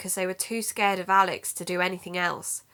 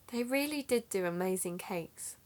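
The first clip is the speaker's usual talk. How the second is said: soft unvoiced whisper; whispered aside about the cafe's cakes; 6 dB quieter than usual. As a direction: breathe it like a fond secret. Wistful aside about lost cafe.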